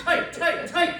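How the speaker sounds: tight. Pretend. Mocking tight clothes, rising squeal.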